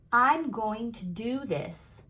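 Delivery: slow, grounded statement; firm commitment. Shown as a demonstration. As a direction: plant your feet and mean it. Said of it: "puts the power in me".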